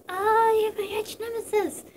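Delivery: high, put-on rival voice; the speaker's villain voice. The speaker greeting Dave as his nemesis, hammed-up high voice. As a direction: ham up a dramatic arch-rival greeting. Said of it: "Eli's like".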